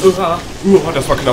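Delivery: loud startled breath out; phew, close call; relieved gasp. Real, not acted. Player just escaping death, loud relieved gasp.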